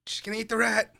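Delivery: very high, put-on little voice; high-pitched squeal. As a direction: squeal it out, then ease off. High cry reacting to the film.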